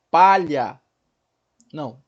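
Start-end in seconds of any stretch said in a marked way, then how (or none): 0.1-0.8 PALHA dividida em sílabas, primeira mais forte; separando sílabas. Shown as a demonstration. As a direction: bata cada sílaba de "Palha". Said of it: "Nunca vou ter sílaba sem vogal". ("Palha" sílaba por sílaba)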